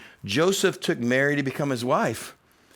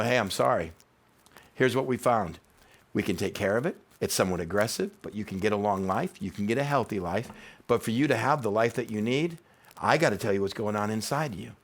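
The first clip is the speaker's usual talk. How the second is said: softer, calm bad-news voice; gentle doctor; 4 semitones lower, 4 dB quieter than usual. Doctor telling a patient the cancer diagnosis, gentle and calm. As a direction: break it gently like a caring doctor. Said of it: "Great doctors are gonna go".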